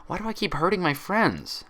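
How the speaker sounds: high, pained questions to herself; distressed self-reproach. A narrator's reading. Twilight blaming herself in anguish. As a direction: berate yourself near tears.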